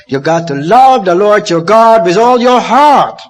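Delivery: loud, ringing proclamation of the commandment; proclaimed quote. Retold or imitated. Preacher proclaiming Jesus's command, loud and ringing. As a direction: declare it to the whole room. Quoting Jesus loudly to congregation.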